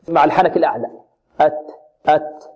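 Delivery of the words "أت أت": أت with tongue tip on the palate, no s; correct ta. Shown as a demonstration. Teacher showing students the right ta, free of hissing. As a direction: clean t ending on each أت. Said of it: "والصحيح أن طرف اللسان".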